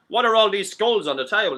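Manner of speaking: high, loud mock American tourist; brash American asking about skulls; loud put-on American tourist. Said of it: "the American says".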